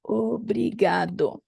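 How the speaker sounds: "Obrigado." slow, ending in o; slow masculine form. Shown as a demonstration. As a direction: draw out "Obrigado." with final o. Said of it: "if a man is speaking, he would say".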